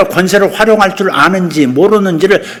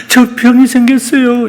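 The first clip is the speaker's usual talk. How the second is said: whiny complaint; 7 semitones higher than usual. Shown as a demonstration. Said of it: "이러지 말고".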